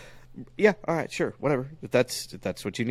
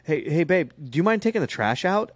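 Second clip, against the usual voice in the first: imitating wife; 8 semitones higher than usual. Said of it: "my wife will go".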